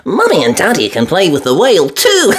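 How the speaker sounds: high with a laugh; little girl laughing; giggly Peppa. A narrator's reading. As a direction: giggle through it.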